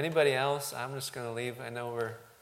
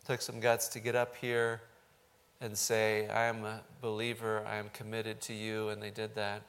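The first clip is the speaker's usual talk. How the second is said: measured, even-toned pastor's prayer; earnest closing prayer in level phrases; public prayer. Real, not acted. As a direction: pray aloud for the congregation, steady and earnest.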